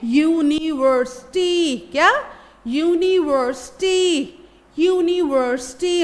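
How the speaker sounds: यूनिवर्सिटी with a ya sound at the start; model word. Shown as a demonstration. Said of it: "या का sound आएगा यू से तो हम बोलेंगे".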